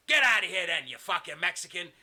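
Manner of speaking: mock-furious order to leave; angry dismissal. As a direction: throw someone out, acted. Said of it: "And he goes".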